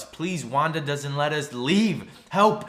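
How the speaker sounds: acted plea building to a cry; retold desperate appeal for help; mock pleading. Acts Agnes begging Vision for help.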